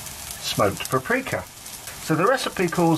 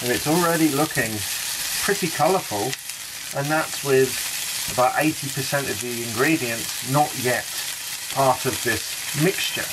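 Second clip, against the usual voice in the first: talking around a spoon; words muffled by spoon; spoon in mouth. Real, not acted. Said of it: "Sorry, just talking with the spoon there".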